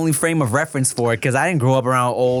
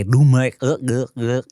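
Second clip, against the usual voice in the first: put-on groping for gurgled Vietnamese accent sounds. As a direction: try Vietnamese accent as if underwater. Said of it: "sound like you're drowning underwater".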